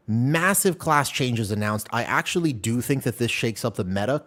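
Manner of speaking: upbeat video presenter read. Acted. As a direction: present it to camera with energy. Recorded video intro read.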